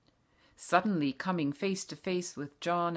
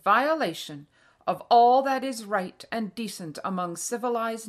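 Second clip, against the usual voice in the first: loud, higher, emphatic formal proclamation; outraged, dignified Queen; 4 semitones higher, 7 dB louder than usual. A narrator's reading. Queen addresses the nation by radio, outraged and dignified. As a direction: declaim with dignified outrage, filling the house. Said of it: "full of outrage and dignity".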